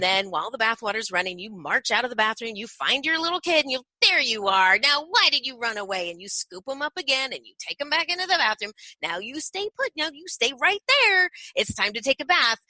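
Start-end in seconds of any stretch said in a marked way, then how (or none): 4.0-6.1 playful parent. Shown as a demonstration. Playful parent finds child. 9.0-12.6 mock stern parent. Shown as a demonstration.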